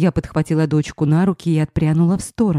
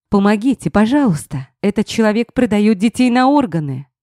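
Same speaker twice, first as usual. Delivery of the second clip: shrieking; 5 semitones higher than usual. Acted. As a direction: shriek it at the passing police. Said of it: "визжала я".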